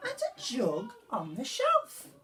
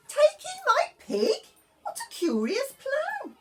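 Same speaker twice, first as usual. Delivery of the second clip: put-on high, pleading old lady voice; a fretful little old lady begging for help; 6 dB louder than usual. Old lady's reply.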